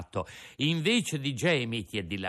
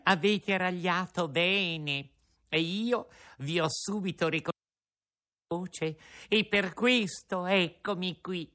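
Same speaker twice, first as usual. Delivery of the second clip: sly little snigger; 4 semitones higher than usual. Acted. Coachman gloating to the two donkeys, sniggering. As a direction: savour the words with a sly chuckle. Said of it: "col suo solito risolino".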